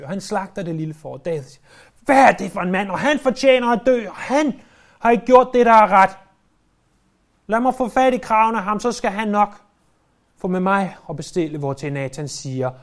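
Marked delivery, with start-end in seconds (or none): 2.0-11.6 raised, indignant outburst; outraged. Acted. King David demanding the rich man be punished, outraged. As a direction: fume at the rich man's deed.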